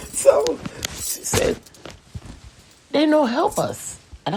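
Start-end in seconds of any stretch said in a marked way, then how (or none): 2.9-4.0 mimicked broken English.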